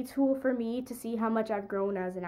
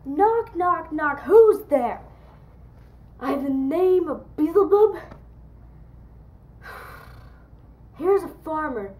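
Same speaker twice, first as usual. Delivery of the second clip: loud, theatrical porter calling at the door; porter of Hellgate; 4 semitones higher, 6 dB louder than usual. Acted. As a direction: punch out the knocks, boom the questions.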